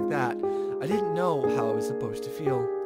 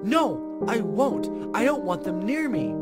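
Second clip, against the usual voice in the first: indignant refusal; 2 semitones higher than usual. Acted. Child refusing in a quarrel.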